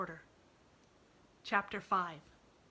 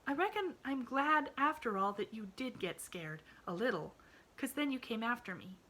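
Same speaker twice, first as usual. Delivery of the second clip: shivering; 7 semitones higher than usual. A narrator's reading. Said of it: "she shivered".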